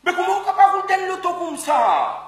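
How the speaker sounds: loud indignant outburst; shouting at the mechanic in disbelief; outraged shout. Acted. Outraged rant at garage. (cri indigné)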